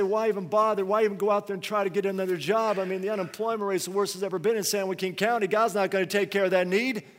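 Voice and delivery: tempted voice ranting about why even try; voice of discouragement. Retold or imitated. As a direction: whine every excuse with growing exasperation. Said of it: "you're just tempted to say".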